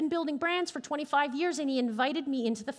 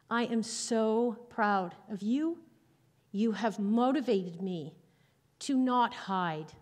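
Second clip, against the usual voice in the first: tender, touched; 3 semitones lower, slower than usual. Retold or imitated. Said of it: "and she says to me".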